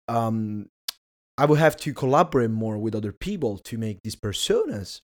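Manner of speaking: hoarse, strained voice fading out; losing voice. Real, not acted. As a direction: speak through a voice that's going. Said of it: "I'm losing my voice".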